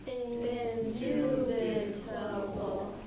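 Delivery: INDUBITABLE echoed slowly, syllable by syllable; bounced repetition. Shown as a demonstration. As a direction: repeat "Indubitable" in slow, separate syllables. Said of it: "Everyone repeat".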